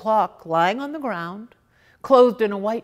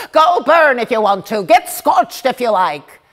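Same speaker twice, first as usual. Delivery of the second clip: scolding; 4 dB louder than usual. Acted. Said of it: "She keeps scolding the girl".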